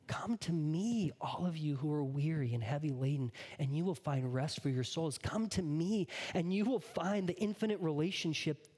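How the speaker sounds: tender Jesus calling the weary; tender invitation. Acted. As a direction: invite them in gently. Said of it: "what Jesus says is".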